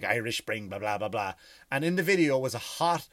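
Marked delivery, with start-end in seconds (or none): 0.0-1.3 mock ad read. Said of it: "supposed to narrate this thing".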